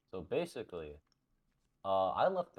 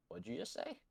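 stern dad; 11 semitones higher, 7 dB quieter than usual. Retold or imitated. Friend's dad catches him swearing.

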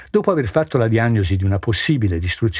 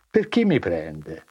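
lower, softer, slow doctor's question; doctor, softly; 5 semitones lower, 4 dB quieter, slower than usual. A narrator's reading. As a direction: ask kindly, unhurried. Sacks risponde. (medico pacato, più basso e lento)

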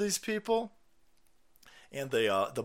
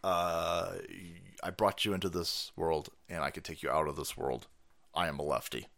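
imitating mom; 10 semitones lower, 8 dB quieter than usual. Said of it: "And my mom said".

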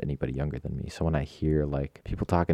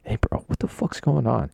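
baffled driver; 7 semitones higher, 3 dB louder than usual. Retold or imitated. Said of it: "they're just looking at me like".

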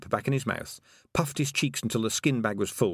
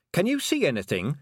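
calling out; 5 semitones higher, 3 dB louder than usual. A narrator's reading. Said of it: "she called".

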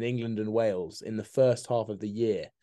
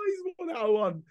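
mock announcer; 11 semitones higher than usual. Announcing the host's score.

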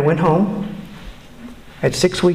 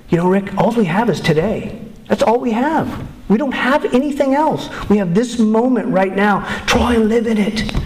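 put-on amateur Irish accent, pitched higher; 6 semitones higher than usual. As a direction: imitate an Irish friend's lilt, not quite convincingly. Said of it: "with his Irish accent".

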